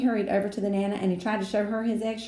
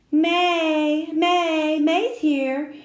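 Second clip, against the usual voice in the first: high, loud excited shout of her own name; gleeful shout through a car window; 9 semitones higher, 8 dB louder, much slower than usual. A narrator's reading. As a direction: call it out the window, cheering for yourself. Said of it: "she shouted through the open window".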